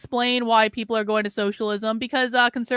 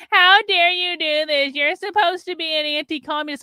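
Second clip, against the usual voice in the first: mock outrage; 6 semitones higher than usual. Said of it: "as they're crying and screaming".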